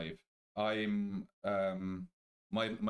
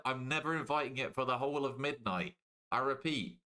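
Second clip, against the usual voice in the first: mock alarm; 4 semitones higher than usual. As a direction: sound a hammed-up alarm.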